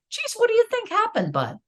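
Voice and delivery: high, fast, light and gentle ask; the patient parent's reply, lightly voiced; calm listening reply. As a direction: sound curious and unbothered, not worried. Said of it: "The appropriate response would be".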